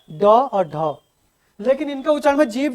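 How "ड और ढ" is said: easy ड and ढ, tongue not catching; slow, unforced ड and ढ; relaxed retroflex stops. Shown as a demonstration. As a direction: say ड and ढ as plain stops, unflapped. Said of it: "आराम से उच्चारण हो जाता है".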